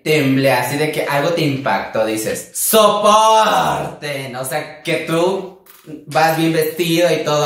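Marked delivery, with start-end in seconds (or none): 2.5-4.4 very slow, stretched "Soporten"; haughty drag clapback; diva retort. Retold or imitated. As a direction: deliver it like a queen brushing off haters.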